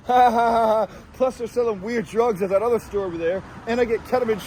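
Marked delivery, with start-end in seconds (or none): 0.1-0.9 giggly laugh. Real, not acted. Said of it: "they gave me the giggle juice".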